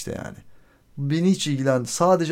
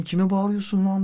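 retold angry retort; 7 semitones higher than usual. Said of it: "bağırmaya devam ediyor".

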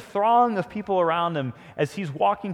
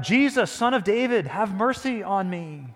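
raised, pleading call, easing at the end; crying out; 3 semitones higher than usual. Retold or imitated. Blind beggar calling to Jesus for mercy, crying out. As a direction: call out for mercy, drawing out the close. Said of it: "And he cried out".

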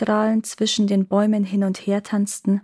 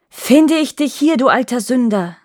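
high, loud cry of discovery; indignant storybook exclamation; exclaiming hunter; 4 semitones higher, 5 dB louder than usual. A narrator's reading. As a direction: confront the culprit you just caught.

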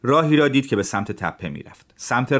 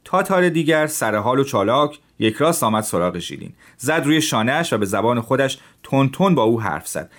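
plain reading voice

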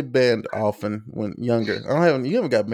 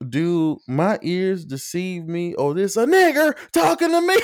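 mock posh insult; 8 semitones higher than usual. Imitating the online opponent's pompous comeback. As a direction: deliver it like a grand courtly insult. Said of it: "he's like".

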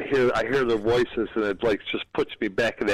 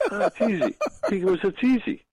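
higher pitch, laughing through the words; amused, high-pitched imitation of a breezy answer; laughing retold quote; 8 semitones higher than usual. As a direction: tell the punchline through a laugh. Laughing while retelling driver's answer.

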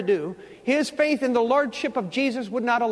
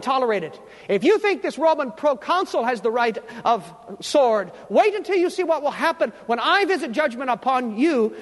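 stern preacher voicing a divine warning; emphatic, indignant admonition; Jesus. Jesus warning the church against pagan idols, sternly emphatic. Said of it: "I believe this is what he is saying".

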